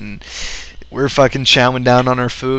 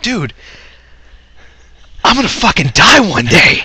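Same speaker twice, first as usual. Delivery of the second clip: mock despair; 7 semitones higher than usual. Friend repeats his line to Sean, hammed-up anguished wail. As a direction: wail it like doom is here. Retold despair, second take.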